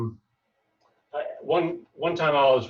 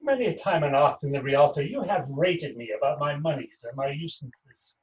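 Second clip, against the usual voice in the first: measured stage delivery of a wronged moneylender; stage verse with long pauses; Shylock monologue. Acted. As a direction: play an aggrieved Shylock, lightly voiced.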